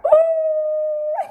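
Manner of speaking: high, loud "ooh" whoop; excited whoop. Real, not acted. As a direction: whoop long and high with delight. Whooping over the pants' fit.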